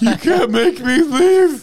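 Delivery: high, loud, drawn-out protest; mock defiant yell. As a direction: holler it like a hammed-up protester. Acting the chained man's protest.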